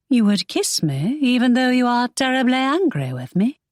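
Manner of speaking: lightly voiced heroine, amazed; Imogen, surprised.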